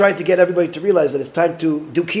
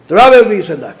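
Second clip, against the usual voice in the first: louder, resolved announcement; now say it out loud, decided; firm declaration; 6 dB louder, much faster than usual. Retold or imitated. The father declares his decision, louder and firm. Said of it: "And then he realized".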